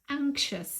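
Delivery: anxious said slowly as ANK-shus, stress on the first syllable; pronunciation model. Shown as a demonstration. Teacher introducing anxious to learners, said slowly and clearly. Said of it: "يا ريت تعيدوها".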